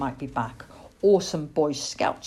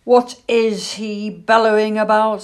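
startled awake; 5 semitones higher, 8 dB louder than usual. A narrator's reading. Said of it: "waking up with a start".

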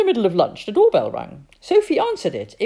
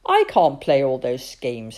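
desperate; 3 semitones lower, 6 dB louder than usual. Acted. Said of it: "said her father desperately".

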